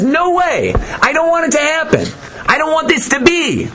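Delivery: a touch of a grumbling Satan; lightly voiced Satan. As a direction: whine it like a griping accuser.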